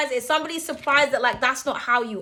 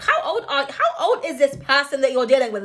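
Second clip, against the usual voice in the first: laughing; 4 dB louder than usual. Real, not acted. Laughing at immature person.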